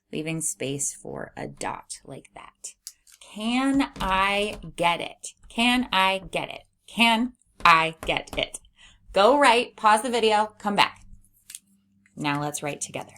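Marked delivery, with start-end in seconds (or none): 3.2-8.6 dictation repeats. Shown as a demonstration. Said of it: "first sentence is". 9.1-11.0 energetic instruction. Real, not acted. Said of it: "teacher instruction".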